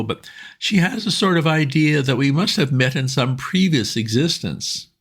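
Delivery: pleading pal, keen and urgent; eager Bingo. A narrator's reading. Bingo asking his old friend Bertie for help, eager and high.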